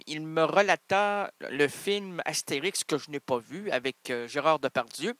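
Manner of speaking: ordinary delivery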